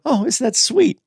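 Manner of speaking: high, sing-song fake sweetness; mock gushing viewer. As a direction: coo it like a swooning fan, way up high. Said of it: "there's some people out there who go".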